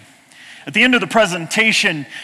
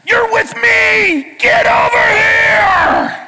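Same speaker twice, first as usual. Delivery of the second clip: much higher, loud, slow stretched-out call; yelling; 6 dB louder, much slower than usual. Retold or imitated. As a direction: shout to pick the kid out of the crowd. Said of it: "you turned around and you yelled".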